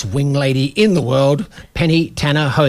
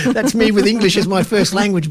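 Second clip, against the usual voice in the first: laughing; 5 semitones higher than usual. Real, not acted. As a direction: still laughing through the words. Laughs at his own accent.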